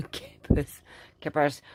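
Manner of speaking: "kippers" breathed through a laugh. Real, not acted.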